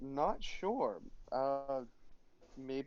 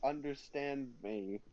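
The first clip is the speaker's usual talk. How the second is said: high-pitched; 2 semitones higher, 4 dB quieter than usual. Acted. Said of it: "that was so high pitched".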